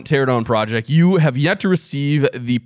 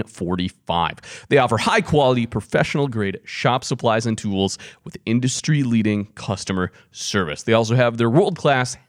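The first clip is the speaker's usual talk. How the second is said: polished podcast ad read; sponsor read. Acted. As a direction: present the sponsor smoothly, point by point. Reads the sponsor spot.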